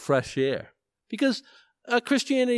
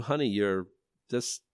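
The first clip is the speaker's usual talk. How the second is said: softer, hesitant loving reminder; friendly nudge; 4 semitones lower, 4 dB quieter than usual. Acted. Wife gently correcting her husband, lightly acted friendly nudge. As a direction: nudge gently, feeling for the words. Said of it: "a little friendly nudge from someone who loves you".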